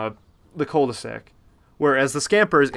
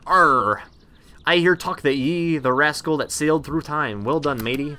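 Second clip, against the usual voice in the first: hammed-up pirate, growled Arr; badly faked pirate accent; 3 semitones higher, 4 dB louder, slower than usual. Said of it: "That was a very bad pirate voice".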